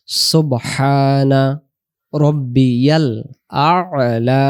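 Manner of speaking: আ'লা opened with a throaty ain, slowly; slow recited সুবহানা রব্বিয়াল আ'লা; Arabic ain. Shown as a demonstration. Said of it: "শুধু শেষে আ'লা লাগাবো".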